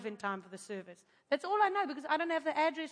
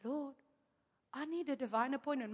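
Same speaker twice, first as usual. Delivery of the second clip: quiet plea; 6 dB quieter than usual. Retold or imitated. Retold quiet prayer, stuck alone.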